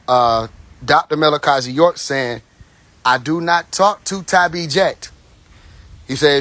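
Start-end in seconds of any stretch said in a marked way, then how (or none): 3.0-5.1 slow, spaced-out "I do not talk", imitating a speaker; measured imitation, "not" and "talk" set apart; imitated deliberate emphasis. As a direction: quote it slowly, leaning on each word of "do not talk". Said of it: "He'll put emphasis on different parts of different words".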